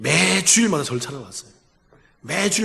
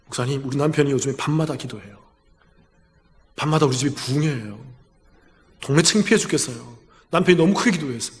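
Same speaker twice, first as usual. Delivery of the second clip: relaxed voice; 4 semitones lower than usual. Retold or imitated. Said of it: "목소리가 편안하더라고요".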